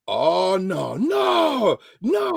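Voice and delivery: high, loud cry of no; startled shout. Retold or imitated. A friend shouting across the restaurant in alarm.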